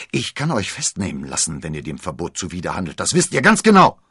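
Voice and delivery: threatening commander. Acted.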